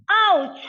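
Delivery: demonstrated cry of sudden hurt; drawn-out "ouch" as if just injured; pained ouch. Shown as a demonstration. Lecturer acting out a sudden injury for students, mock pain. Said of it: "if I am injured".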